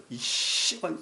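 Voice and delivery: half-voiced imitation of a cursing guard, sibilant drawn out; retold curse. Bodyguard pressing the pastor back down, imitated curse. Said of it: "욕을 팍 하는 거예요".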